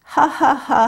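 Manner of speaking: spoken mock ha-ha-ha; laughter imitated syllable by syllable. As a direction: act out someone's long laugh in words. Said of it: "한참을 웃습니다".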